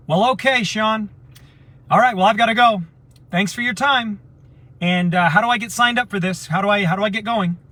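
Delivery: high, loud and keen, suddenly sold; the doctor jumping in, eager to sign up. Retold or imitated. Doctor on the call eagerly asking to sign up, high and loud. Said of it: "the doctor who I was trying to influence goes".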